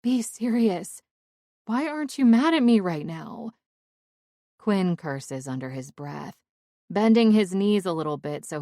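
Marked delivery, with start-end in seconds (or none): 0.0-3.5 earnest plea. Acted. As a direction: make him take you seriously. Emily pleading seriously.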